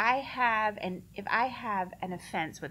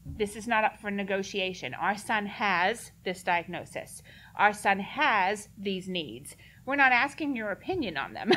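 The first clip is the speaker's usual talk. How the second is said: authoritative. Shown as a demonstration. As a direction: state it like it's not up for debate. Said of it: "and be authoritative".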